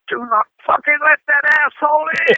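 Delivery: high, acted angry yell; imitated enraged rock star; furious order. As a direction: lay down the law in a rage. Star's furious order, retold.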